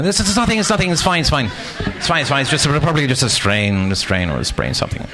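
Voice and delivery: high, breezy denial of injury; Black Knight bravado. Retold or imitated. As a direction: wave off the pain in a bright high voice. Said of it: "I'm acting like the Black Knight".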